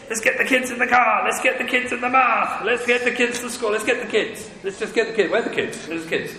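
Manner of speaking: put-on rushed, dismissive parent herding the kids; a parent rushing everyone out the door; harried parent. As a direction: brush them off as one blob. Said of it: "one blob called the kids".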